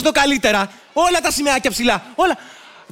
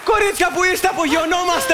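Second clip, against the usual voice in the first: higher-pitched call across the stage; 5 semitones higher than usual. Acted. Pilot hails the girls as they take off, calling out. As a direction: call them over for departure.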